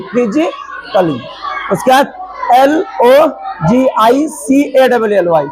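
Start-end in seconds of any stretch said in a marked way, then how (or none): 0.1-1.2 slow "फिजिकली" with short "klee"; silent A. Shown as a demonstration. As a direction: repeat "फिजिकली" slowly for learners, A silent. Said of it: "तो क्या पढ़ेंगे?". ("फिजिकली" धीरे, ए बिना बोले)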